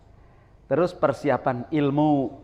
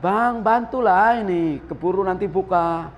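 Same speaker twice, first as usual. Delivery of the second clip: wife calling; 3 semitones higher than usual. Retold or imitated. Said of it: "istrinya teriak".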